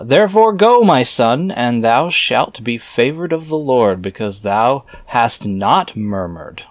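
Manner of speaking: put-on slow, solemn reading of old scripture. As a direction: intone the archaic words like a preacher. Reads scripture aloud, slow end.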